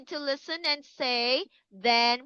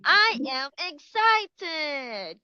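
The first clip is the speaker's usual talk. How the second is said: slow, raised, eager I am excited; 4 semitones higher, slower than usual. Shown as a demonstration. Teacher showing kids an excited face and voice, higher. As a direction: sound thrilled for the kids. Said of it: "Can you do like this one".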